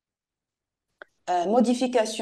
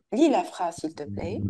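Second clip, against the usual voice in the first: gentle, asking nicely; polite request; 3 semitones lower than usual. Shown as a demonstration. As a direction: ask kindly, softening at the end. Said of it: "de trois tons différents". (demande polie et douce)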